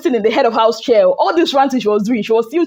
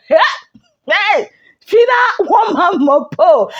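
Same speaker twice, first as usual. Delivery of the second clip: slow, higher shout across the room; calling out; 5 semitones higher, slower than usual. Retold or imitated. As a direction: call out to stop her. Calling Fina to stop.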